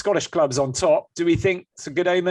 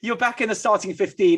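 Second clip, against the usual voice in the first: lightly put-on French accent, a little higher; 4 semitones higher than usual. Teammates egg him on, so a mild French accent. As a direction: read it with a hint of a French accent. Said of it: "do it in your French accent 'cause you want to".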